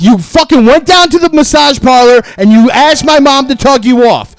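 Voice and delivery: angry shouting. Acted. Caller repeats his accusation to Mason, shouting. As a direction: shout it right at him.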